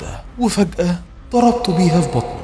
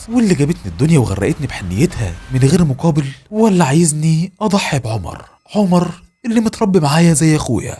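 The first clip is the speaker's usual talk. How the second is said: somewhat raised, pleading voice, no real sobs; loud, crying. Retold or imitated. The son refuses the voice, mildly raised and tearful. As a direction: protest to the voice, half-hearted tearful yell. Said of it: "بصوت عالي وانا بعيط".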